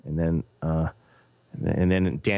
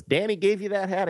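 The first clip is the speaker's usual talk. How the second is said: high-pitched astonished question; imitated surprise; 12 semitones higher than usual. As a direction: act out someone amazed, voice jumping up. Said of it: "He goes".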